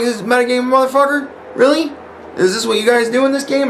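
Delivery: very high, exasperated challenge; indignant disbelief. Retold or imitated. Player accusing the group of metagaming, indignant. Retold confrontation over metagaming.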